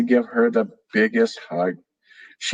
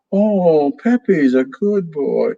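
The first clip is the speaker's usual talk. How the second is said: a touch higher, sing-song parrot talk; lightly voiced parrot; 5 semitones higher, slower than usual. Parrot Pepe praises himself to the family, light parrot voice. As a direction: chirp it like a pleased parrot.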